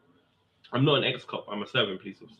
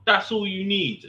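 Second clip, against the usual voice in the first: high, slow, smug imitation; mock smug sergeant; 10 semitones higher, 4 dB louder than usual. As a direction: mimic him as smug and dismissive. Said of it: "he's like".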